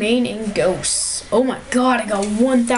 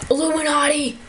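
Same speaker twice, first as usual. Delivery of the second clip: excited shout; 6 semitones higher than usual. Real, not acted. Spots Illuminati symbol.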